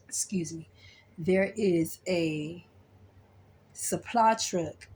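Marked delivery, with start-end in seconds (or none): 0.1-0.7 soft unvoiced "Excuse me" after a cough; whispered excuse me. Real, not acted. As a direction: breathe "Excuse me" under your breath, no voice. Clears throat, excuses herself.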